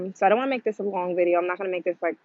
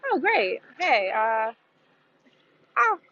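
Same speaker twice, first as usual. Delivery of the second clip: casual rich client; 3 semitones higher than usual. Retold or imitated. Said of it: "their response to it is like".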